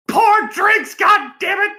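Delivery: high shouted bad Australian accent. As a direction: yell it in a hammy Australian accent. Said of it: "I can't really do an Australian accent".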